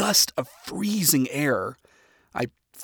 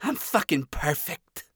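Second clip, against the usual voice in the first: higher, louder chipper bravado; upbeat bravado; 6 semitones higher, 7 dB louder than usual. Acted. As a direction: brush it off cheerfully. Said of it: "signature up-and-at-'em attitude".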